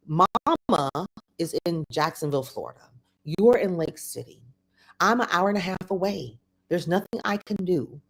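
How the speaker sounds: measured, deliberately calm explanation. Retold or imitated. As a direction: retell it evenly, with careful pauses. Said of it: "I literally said it this calm".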